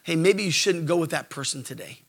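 soft, gentle nudging voice; quiet nudge. Acted. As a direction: gently whisper a warning. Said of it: "quietly nudge you and say".

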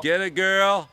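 very high, loud cheer at the cat; big cheer. Real, not acted.

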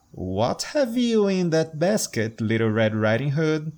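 a hint of a cunning wolf. Wolf questioning the girl.

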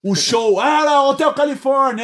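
loud, high, grand stage announcement; rock star announcing. Retold or imitated. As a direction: belt it like a rock star opening a show. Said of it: "É quase que falando". (anúncio de astro do rock no palco)

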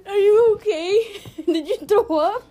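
giggling through the words, pitch up; laughing. Real, not acted. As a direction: laugh while asking if she's okay. Friend chokes on water.

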